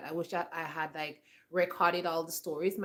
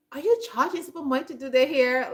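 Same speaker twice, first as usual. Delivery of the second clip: higher, louder scolding question, imitating grandma; upset grandmother; 7 semitones higher, 8 dB louder than usual. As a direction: retell grandma scolding her, raised voice. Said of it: "my grandma used to get upset".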